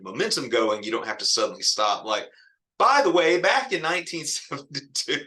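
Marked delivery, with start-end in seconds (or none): 2.8-5.2 mock interruption. Mock essay interrupting its momentum.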